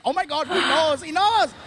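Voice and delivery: excited crowd scream. Retold or imitated. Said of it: "They were, like, screaming".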